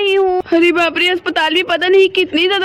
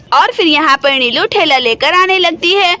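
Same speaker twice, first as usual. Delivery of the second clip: lower, even storyteller voice reading the scene; story narration; 3 semitones lower than usual. A narrator's reading. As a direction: narrate the action calmly between the scenes. Narration line. (कहानी सुनाने वाली आवाज़)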